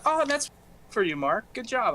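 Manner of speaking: mock teacher praise. Teacher praising student, retold.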